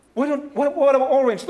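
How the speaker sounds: hint of a mom; imitating a mom. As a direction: suggest brightly like a parent. Mother offers another color.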